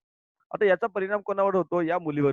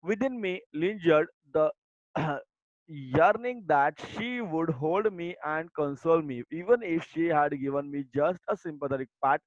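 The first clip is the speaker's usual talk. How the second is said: slow, deliberate textbook reading; reading aloud; much slower than usual. Acted. Teacher reading the lesson text to her students, slow and deliberate. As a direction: read each word out slowly for the class. Reads the English passage.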